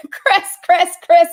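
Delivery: high-pitched, laughing mock yell. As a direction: imitate someone yelling out a correction, amused. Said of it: "he's yelling at me".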